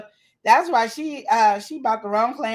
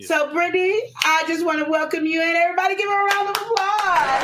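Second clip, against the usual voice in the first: excited host welcome; 7 semitones higher than usual. Real, not acted. Hosting, welcoming guest in.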